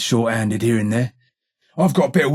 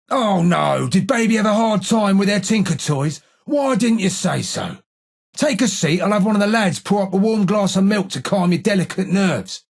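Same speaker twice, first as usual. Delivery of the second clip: mock sympathy; 5 semitones higher than usual. Mocking the listener as a baby.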